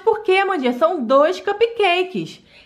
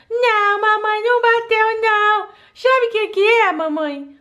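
put-on little girl voice; 5 semitones higher than usual. Doll child answering mom.

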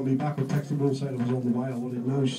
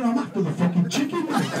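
much higher, laughing yell; mock shout; 9 semitones higher than usual. Chasing Rich through Paddington, laughing mock shout. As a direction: call it out mid-chase.

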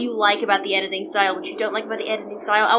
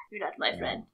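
whispered; 9 semitones lower, 11 dB quieter, faster than usual. Real, not acted. First take whispered.

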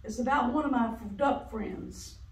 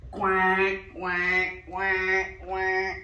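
duck quacks; 2 semitones lower, 5 dB louder, much slower than usual. Acted. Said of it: "and went".

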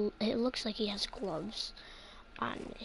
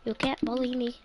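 firm, standing up to a bully; a kid facing down a mob, defiant. Pretend. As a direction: tell the bully off.

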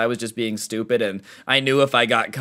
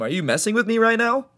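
incredulous; 10 semitones higher than usual. Retold or imitated. Kid disbelieving teacher.

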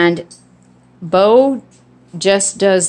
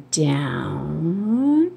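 softer, slow drawn-out "Down"; bedtime voice; 6 dB quieter than usual. Shown as a demonstration. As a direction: say "Down" like tucking a child in. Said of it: "I lower my voice like it's bedtime".

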